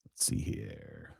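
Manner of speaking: low, slow, very soft murmur; thinking aloud under the breath; muttering to himself. Real, not acted. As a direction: murmur it absently while searching. Talking to himself while searching.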